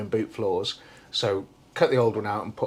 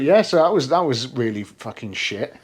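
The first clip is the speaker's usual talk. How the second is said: laughing; 5 dB louder than usual. Real, not acted. Laughing at own ordeal.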